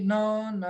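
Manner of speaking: "Não, não" alongado como em nananenê; som de ninar. Shown as a demonstration. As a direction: embale o som de "Não, não", ligando as sílabas. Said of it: "Lembra o bebê quando você vai botar pra dormir?". ("Não, não" como quem nina um bebê)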